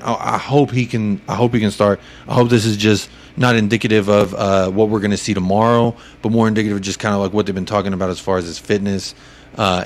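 ordinary talk, nothing marked

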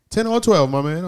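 loud, high-pitched imitation of an agreeable biker; imitated hearty biker. Biker agreeing to buy a stranger gas, imitated loud and high.

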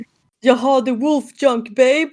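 high, loud swaggering boast; cocky bro voice. Retold or imitated. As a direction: brag like a cocky guy. Kenzie in Dyson's body. (kaxig, hög och högljudd skrytröst)

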